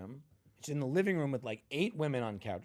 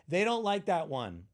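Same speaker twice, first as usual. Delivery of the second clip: bossy rich host; 7 semitones higher, 7 dB louder than usual. Retold or imitated. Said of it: "she just goes".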